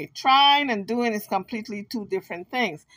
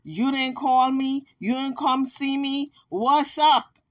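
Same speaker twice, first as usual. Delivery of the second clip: whiny complaint; 3 semitones higher than usual. Retold or imitated. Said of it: "what the Kansas said".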